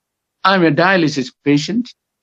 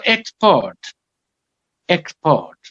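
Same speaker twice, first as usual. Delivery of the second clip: EX-port, with EX stressed and the second syllable lighter; stress on first syllable; slower than usual. Shown as a demonstration. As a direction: hit EX in "export", as the noun. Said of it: "the stress falls on the first syllable".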